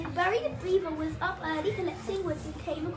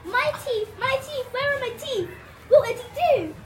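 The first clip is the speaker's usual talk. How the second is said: panicked; 5 semitones higher, 4 dB louder than usual. Acted. Alan panics finding teeth gone.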